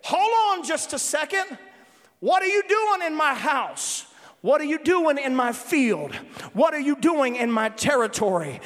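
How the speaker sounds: forceful preacher acting out a territorial spirit; spirit challenging an intruder. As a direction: confront the trespasser as the spirit. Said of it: "this is what the Spirit's doing, just like this".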